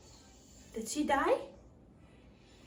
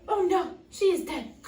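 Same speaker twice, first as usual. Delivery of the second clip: shouting; 3 semitones higher, 6 dB louder than usual. Acted. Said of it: "shouts the clumsy dwarf".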